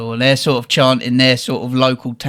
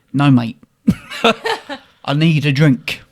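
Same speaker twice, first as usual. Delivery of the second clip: laughing no mate; laughing refusal. Retold or imitated. To the barman about the drink rule, laughing refusal.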